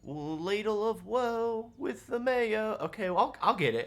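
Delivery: high, eager bard voice; bard Oslo voice. Acted. Game master voicing the bard Oslo to the hunter, high and eager. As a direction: play the chirpy young bard.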